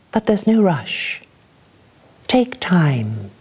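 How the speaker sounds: measured, dramatic poem reading; poetry reading. Acted. Poet performing a crazy lady's blues song poem, measured and dramatic. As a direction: let each image land for the room. Reads Langley Chapel poem aloud.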